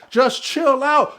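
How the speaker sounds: slow, stretched "Just chill out"; slow it right down, "chill out"; drawn-out chill out. Shown as a demonstration. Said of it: "They be using it way too much".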